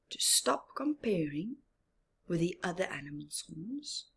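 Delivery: soft, whispered reassurance; soft whispered lesson; gentle moral. Real, not acted.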